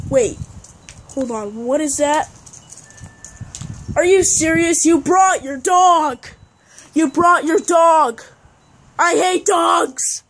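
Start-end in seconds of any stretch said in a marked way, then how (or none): 4.0-10.2 outraged yell at the dog; furious at the dog; angry yelling. Acted. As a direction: shout it like you can't stand dogs. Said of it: "Why are you screaming at him?".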